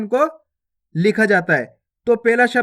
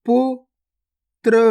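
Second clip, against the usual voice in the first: गुफा drawn out very slowly, each sound held long; slow stretched reading; 2 semitones higher, much slower than usual. Shown as a demonstration. Teacher showing pupils each sound, drawn out very slowly. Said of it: "पहले तो आपको शब्द को गौर से सुनना है".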